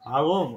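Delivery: "বাগুম" with the R kept inside the mouth, like a g. Shown as a demonstration. Teacher clearing up student's confusion, R kept inside in "বাগুম". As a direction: keep the R of "বাগুম" from coming out. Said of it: "মুখের মধ্যে উচ্চারণ করে".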